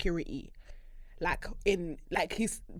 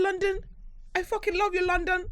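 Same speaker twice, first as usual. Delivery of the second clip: higher, gleeful repeated cry; excited declaration; 10 semitones higher than usual. Real, not acted. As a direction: chant your love for London.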